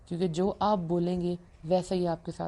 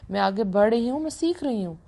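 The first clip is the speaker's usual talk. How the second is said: energetic affirmation, pitched up; upbeat affirmation; 2 semitones higher than usual. Shown as a demonstration. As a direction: cheer yourself on with each line. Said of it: "اپنے آپ سے بولیں،".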